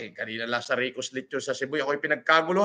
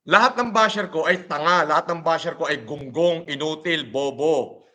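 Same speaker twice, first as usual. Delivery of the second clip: angry name-calling. Real, not acted. Insulting his bashers.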